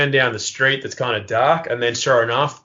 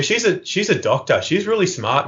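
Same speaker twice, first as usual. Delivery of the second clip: higher, mock-earnest bragging; feigned innocence, pitched up; naive boasting; 5 semitones higher than usual. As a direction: play the innocent proud sibling. Inventing sister to distract police.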